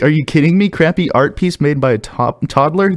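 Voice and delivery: mock outrage, rising into a high question; incredulous protest. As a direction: argue it back in baffled disbelief. Retold argument with subreddit.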